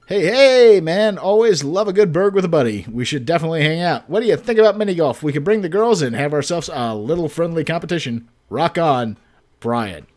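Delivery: upbeat buddy voice, hyped up; dude bro voice. Acted. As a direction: read it like a chummy neighbor. Reads Brian's text in his voice.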